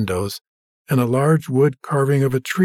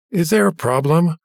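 smug call; 5 semitones higher than usual. Acted. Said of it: "A familiar voice called from behind him".

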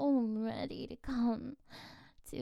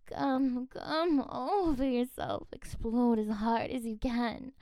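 rising, louder, pressing on; urgent, louder urging; 5 dB louder than usual. Acted. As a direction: push them on, building. Urging at the climax.

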